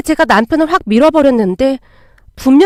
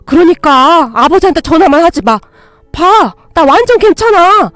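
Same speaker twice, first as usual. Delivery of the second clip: panicked pleading; 3 semitones higher, 4 dB louder than usual. Acted. Husband panicking as his wife threatens to call his father, pleading. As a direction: beg her not to call your father. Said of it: "남편이 벌벌 떨기 일쑤였어요".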